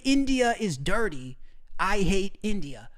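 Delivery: slowly mimicking broken English. Slowly quoting his ex's broken English insult. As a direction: drag out her broken phrase. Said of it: "she knew how to say".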